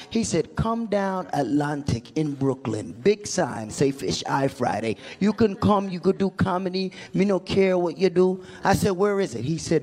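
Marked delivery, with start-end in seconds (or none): 0.5-8.4 lightly put-on Jamaican patois; casual Jamaican promoter giving directions; Jamaican accent. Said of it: "messing with some Jamaicans".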